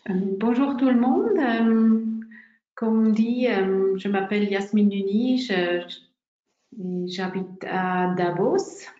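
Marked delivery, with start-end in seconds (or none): 4.0-8.9 halting French with a Swiss-German accent; non-native French, searching for words; broken French. Real, not acted. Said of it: "je parle un peu français".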